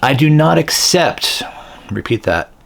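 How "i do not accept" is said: slow, higher-pitched declaration, each word distinct; slow, articulated. Shown as a demonstration. Healer leading everyone to repeat after her, very slowly. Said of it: "say it very slowly".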